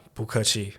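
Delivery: 不客气 said in Mandarin, bú kèqi; Mandarin phrase. Shown as a demonstration. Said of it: "something easy is like".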